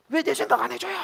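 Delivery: high, loud accusing question; indignant complaint. Acted. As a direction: demand to know, as an aggrieved complainer. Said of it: "라고 막 따지는". (막 따지듯 높고 크게)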